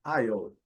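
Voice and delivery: aisle said with a silent S and dark L. Shown as a demonstration. Teacher models aisle from the transcription, careful demo. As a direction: say aisle like "ai-ol", falling. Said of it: "só olhar aqui a transcrição".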